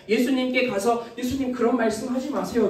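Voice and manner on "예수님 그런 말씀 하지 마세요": mild, quicker, pleading tone; heartbroken plea. Shown as a demonstration. Grieving disciple to Jesus, gently pleading. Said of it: "너무나 마음이 아프구나라는 의미에서".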